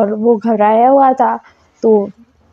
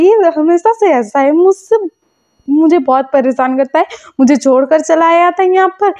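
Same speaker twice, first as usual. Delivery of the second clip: whiny tattling; 3 semitones higher than usual. Retold or imitated. Complains to mother about partner.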